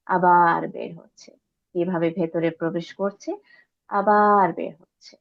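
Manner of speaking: measured meditation voice, words spaced by pauses; guided meditation. Real, not acted. Guide leading listeners to watch the breath, unhurried meditative voice. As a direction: lead the breath gently, lingering on key words.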